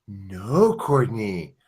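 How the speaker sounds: slow, patronizing teacher tone; condescending. Retold or imitated. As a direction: talk down to her slowly. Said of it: "My super condescending voice goes".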